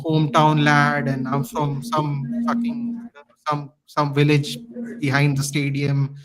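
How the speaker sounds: slow, drawn-out mock posh English accent; mocking a posh English owner, slowly. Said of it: "with this stupid posh accent".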